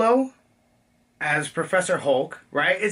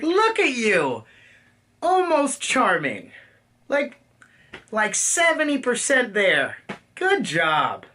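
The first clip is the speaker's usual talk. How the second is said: higher, slow, patronizing praise; cocky older girl; 5 semitones higher, slower than usual. Retold or imitated. Captain Marvel grading Peter Parker, slow, higher and cocky. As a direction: pat him on the head with your voice. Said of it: "cocky, protectory".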